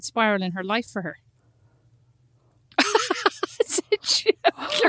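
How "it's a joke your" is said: laughing backpedal. Real, not acted. Backpedalling after tease.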